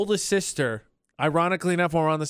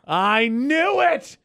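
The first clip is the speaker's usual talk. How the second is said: louder, higher, drawn out gotcha; triumphant; 7 semitones higher, 5 dB louder, much slower than usual. Real, not acted. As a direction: crow it like you caught them. Catching co-host's confession.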